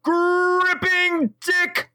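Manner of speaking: high, drawn-out ring announcer call; Michael Buffer yell. Acted. Co-host introducing the host like a wrestler, long ring-announcer yell. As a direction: stretch each word into a long, soaring fight introduction. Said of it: "your very close to Michael Buffer yell".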